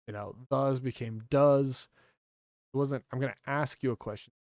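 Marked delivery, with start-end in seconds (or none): 0.5-1.9 "thes" turned into "does"; slang pronunciation. Shown as a demonstration. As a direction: say "thes", then "does" with a hard d. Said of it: "it was a bit of".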